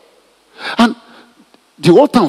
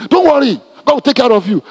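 higher, lightly mocking comfort; mocking platitude; 6 semitones higher than usual. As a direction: parrot the empty reassurance with a hint of scorn. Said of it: "people that talk like that".

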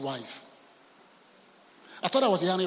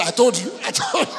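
much higher, gleeful I told you through laughter; laughing triumph; 7 semitones higher, 5 dB louder than usual. Retold or imitated. A father laughing at his son's friends: gleeful. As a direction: laugh it out, gloating.

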